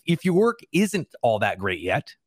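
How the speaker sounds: slow down and lean on "yet" at the end; "yet" set apart as the key word; emphatic "yet" closing the phrase; stress on YET. Real, not acted. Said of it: "I really stress the word yet".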